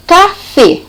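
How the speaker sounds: café with the weight on the final fé; stress on the last syllable. Shown as a demonstration. Teacher showing students the strongest syllable, café stressed on fé. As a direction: say café in two beats, the second stronger. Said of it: "É o fê".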